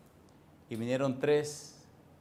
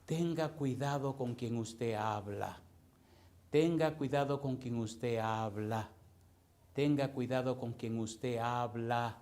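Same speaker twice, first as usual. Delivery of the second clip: slow, measured word by word; deliberate, drawn-out caution; slow solemn warning; slower than usual. Real, not acted. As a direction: spell out the warning slowly, evenly. Solemn warning repeated three times.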